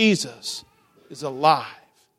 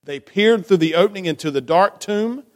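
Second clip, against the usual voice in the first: story narration. A narrator's reading. Reading the Easter story aloud.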